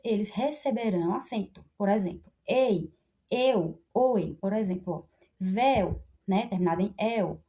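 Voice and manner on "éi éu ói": "ei, eu, oi" with open vowels, éi, éu, ói; "ei, eu, oi" said as separate open diphthongs. Shown as a demonstration. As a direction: demonstrate "ei, eu, oi" one by one as open éi, éu, ói. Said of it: "terminam em ditongos abertos".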